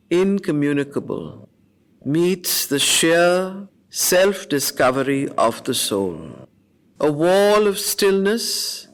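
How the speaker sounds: slow, lifted, solemn verse reading; poem recitation. Acted. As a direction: let every image hang in the silence. Reciting the canto aloud.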